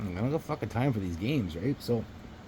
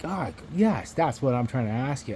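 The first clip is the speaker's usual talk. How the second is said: imitated exasperation, higher on the "Ah, yes"; retold strained agreement, biting back a sarcastic reply; holding back sarcasm; 3 semitones higher than usual. Man asking for ID answers the storyteller, holding back sarcasm. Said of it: "he's trying not to fucking say something sarcastic".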